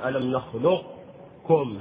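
"نخلقكم" slowly with a trace of qaf; partial assimilation. Shown as a demonstration. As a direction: keep a hint of qaf. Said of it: "هذا إدغام ناقص".

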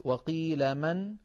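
وقيل من drawn out slowly with a brief stop on the nun of من; slow recited demo. Shown as a demonstration. Teacher showing the pause on من, slow recitation. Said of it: "الموضع الثالث".

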